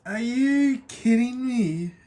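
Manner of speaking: slow, tearful "Are you kidding me?"; overwhelmed by a painted gift, slow and tearful; tearful disbelief. Real, not acted. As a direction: choke it out through real tears. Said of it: "I'm legitimately crying".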